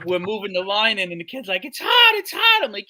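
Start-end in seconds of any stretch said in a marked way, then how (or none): 1.7-2.6 high, loud whiny yelp; officer mocking the rookie in the fire; mock panicky rookie. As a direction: whine like a scared new guy.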